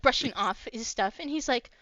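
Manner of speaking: usual speaking voice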